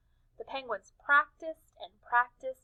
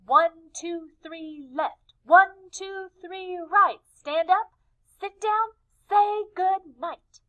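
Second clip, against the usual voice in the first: neat, high, sing-song cheer; prim and tidy, each word placed; proper penguin cheer; 8 semitones higher, 7 dB louder, slower than usual. Acted. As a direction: penguins cheering neatly in unison. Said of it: "Softly and properly they began".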